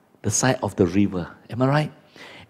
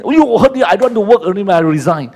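hurt worker quitting; 8 semitones higher, 5 dB louder, faster than usual. Retold or imitated. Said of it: "boss says something".

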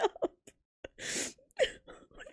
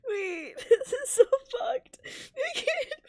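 crying; 3 semitones higher than usual. Real, not acted. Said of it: "I'm crying".

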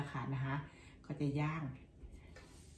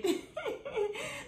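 high laugh; 3 dB quieter than usual. Real, not acted. Laughs at her own joke.

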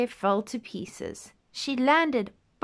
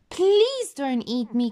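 slow, higher begging plea; pleading cry; 5 semitones higher than usual. Acted. Goldilocks begs the bears, slow higher plea. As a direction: beg for your life slowly. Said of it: "cried Goldilocks".

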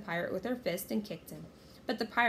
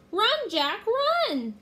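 climbing high, loud scream of warning; frantic rising yell; crying out; 13 semitones higher, 8 dB louder, much slower than usual. A narrator's reading. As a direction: cry out harder on the last word. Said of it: "cried Annie".

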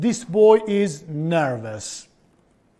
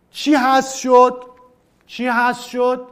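playful quiz; 5 semitones higher, 6 dB louder than usual. Acted. Teacher playfully asks the class.

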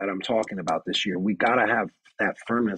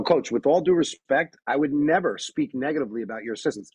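firm respectful reply; 4 semitones higher than usual. Shown as a demonstration.

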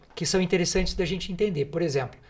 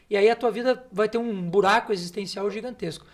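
usual speaking voice

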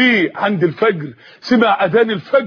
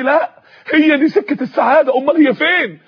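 higher-pitched, mildly shouted insistence; an imitated yell in the ears, pitched up; screaming inner voice; 5 semitones higher than usual. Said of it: "لقيت صوت بيصرخ في وداني". (صرخة تمثيلية خفيفة بنبرة عالية)

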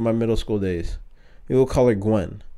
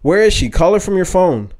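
yelling through tears; 7 semitones higher, 5 dB louder than usual. Retold or imitated. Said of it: "I was yelling through my tears".

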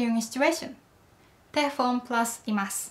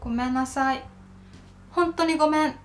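earnestly sorry. Shown as a demonstration. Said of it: "If you're really sorry".

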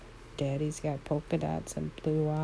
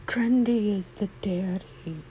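breathy whispered reveal, higher pitched; excited whisper; 5 semitones higher, 3 dB louder than usual. Real, not acted. Whispering to viewers who the foal's daddy is, excited. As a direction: hush it like a secret you can't contain.

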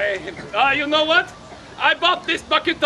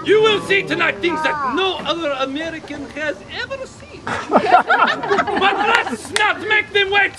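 grandiose flea circus showman. Acted. Ringmaster hyping the crowd.

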